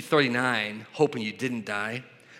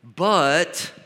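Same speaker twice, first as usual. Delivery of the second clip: drawn-out yeah, then a loud BUT; hedging agreement; 4 dB louder, much slower than usual. Acted. Preacher mimics a false teacher tacking on extras, hedging agreement. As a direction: agree slowly, then push hard on the catch. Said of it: "if the person is preaching is like".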